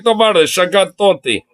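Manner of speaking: lightly hammed-up Russian bidder; mock Russian accent. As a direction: put on a comic Russian accent. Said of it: "this random Russian over here".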